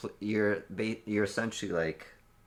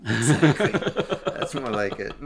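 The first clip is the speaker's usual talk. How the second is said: excited; 7 semitones higher, 10 dB louder than usual. Real, not acted. Cheering the joke.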